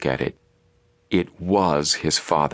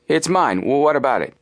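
high, louder challenge; defiant; 9 semitones higher, 3 dB louder than usual. A narrator's reading. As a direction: throw it back at them. Man defends cap, challenging boys.

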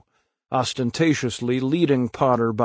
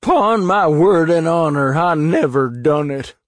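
sobbing; 5 semitones higher, 6 dB louder than usual. Acted. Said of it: "he sobbed".

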